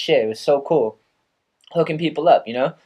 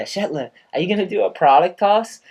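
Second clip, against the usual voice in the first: put-on Australian accent; 7 semitones higher than usual. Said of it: "he says it with an Australian accent".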